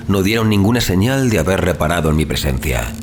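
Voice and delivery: ordinary delivery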